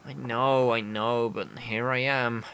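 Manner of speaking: drained, stammering, running out of strength; starving weak man. Acted. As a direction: play someone too weak from hunger to move.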